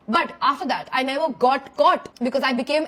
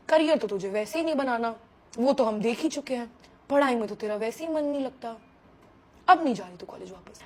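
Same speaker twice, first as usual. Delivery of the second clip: dad's stern voice; 5 semitones lower, 7 dB quieter than usual. Retold or imitated. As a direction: lower and softer, a calm stern father. Dad voiced in retold scolding.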